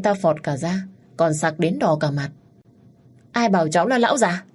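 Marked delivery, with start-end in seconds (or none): 3.3-4.4 angry snap. Acted. Man offended at being called an old geezer, angry retort. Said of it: "Câu nói trong lúc tức giận".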